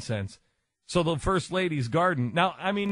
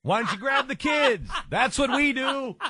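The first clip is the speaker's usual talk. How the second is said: high mocking First Lady voice, hammed up; mocking imitation; 9 semitones higher than usual. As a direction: squeal it like a preachy slogan. Mimicking First Lady's slogan, mocking.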